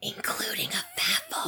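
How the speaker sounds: whispered "Including a fafo"; breathy teasing whisper on "fafo". Real, not acted.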